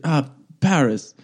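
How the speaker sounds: slow, lightly fake French accent. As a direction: draw it out in mock French-accented English. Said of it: "it was like my French accent now".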